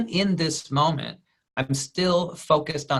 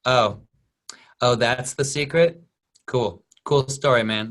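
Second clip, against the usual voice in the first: deflated; 3 dB louder than usual. Retold or imitated. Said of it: "Kevin Hart's face is like".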